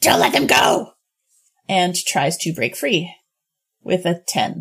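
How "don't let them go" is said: loud, desperate in-character creature yell. Voicing the pinned kobold leader as it yells out: yelling in character. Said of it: "it yells out".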